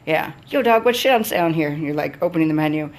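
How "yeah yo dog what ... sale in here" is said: high, loud mock street voice; a put-on bro voice; mock thug customer. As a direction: sneer it like a swaggering customer. Mocking customer's rude greeting again.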